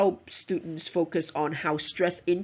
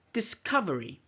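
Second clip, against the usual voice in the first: "discovery" with COV stressed, then falling; "discovery", punching its second syllable; 2 semitones higher than usual. Shown as a demonstration. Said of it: "stress on the word cuff".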